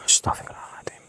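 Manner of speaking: fast hushed prayer under the breath; startled whisper. Real, not acted. Shaken ghost hunter whispering a prayer for protection. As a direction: gasp a prayer so nothing hears.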